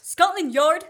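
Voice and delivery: loud, high startled question; surprised. Acted. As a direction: caught off guard, blurt it out.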